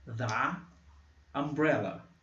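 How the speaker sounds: the umbrella with a short schwa the; teacher demonstrating schwa; schwa demo. Shown as a demonstration. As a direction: model the umbrella with a weak the. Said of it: "usando schwa".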